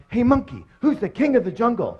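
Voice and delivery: high-pitched challenge from a cocky lion; boastful lion. Acted. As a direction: call out like the self-declared jungle king. Lion challenges monkey in joke.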